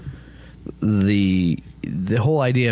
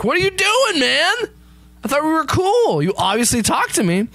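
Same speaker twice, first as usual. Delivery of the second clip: whiny god. Acted. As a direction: complain like a hurt friend. God complaining to Darwin.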